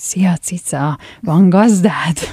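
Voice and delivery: slow, disguised, altered put-on cat voice. Retelling a man's joke about what his cat would say, in a put-on cat voice. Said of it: "ilyen elváltoztatott macska hangon".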